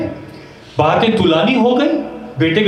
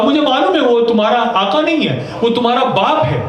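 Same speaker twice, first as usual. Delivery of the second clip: معلوم stressed higher, باپ falling; raised emphatic repeat; 6 semitones higher than usual. Shown as a demonstration. Preacher repeats Husain's words to mourners, raised. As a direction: lift معلوم high and land on باپ. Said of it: "کہا".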